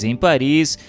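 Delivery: ordinary talk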